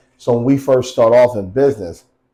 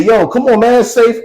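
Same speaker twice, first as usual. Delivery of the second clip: high-pitched, animated urging; retold eager coaxing; 10 semitones higher, 4 dB louder than usual. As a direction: act out a pal egging someone on. Retold friend coaxing onto the ice.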